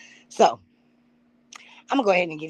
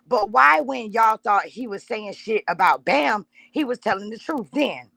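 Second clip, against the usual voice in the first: raised, drawn-out retort; retold comeback; 3 semitones higher, slower than usual. Streamer rereads what she told a commenter, mock-fiery. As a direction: fire it back at the liar. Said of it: "Okay, I said".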